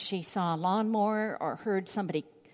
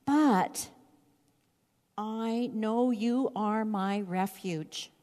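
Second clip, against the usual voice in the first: trusting prayer. Retold or imitated. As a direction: ease down into calm confidence. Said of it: "he begins to say".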